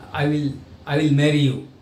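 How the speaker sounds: a touch of unwilling hesitation; reluctant yes. Shown as a demonstration. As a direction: say yes as if you don't want to. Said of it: "the meaning is like you don't want to marry".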